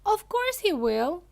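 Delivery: shrieking. A narrator's reading. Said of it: "shrieked Missus Gloop".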